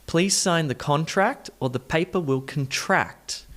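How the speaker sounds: quick sing-song sentence with shifted stress; said fast. Shown as a demonstration. Teacher shows the melody, saying it fast. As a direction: run it together quickly, CON-tract then con-TRACT. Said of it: "I'll say it fast".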